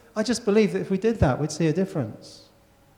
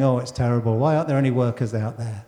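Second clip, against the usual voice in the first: mock moaning; 4 semitones lower than usual. Voicing the same moaners.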